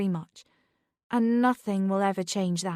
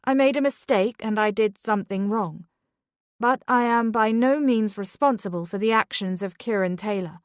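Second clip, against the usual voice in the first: rising louder in defiance; mother defending herself at school, rising louder; growing louder; 2 semitones higher, 4 dB louder than usual. Acted. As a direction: push back harder and louder. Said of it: "Beth's voice grew louder".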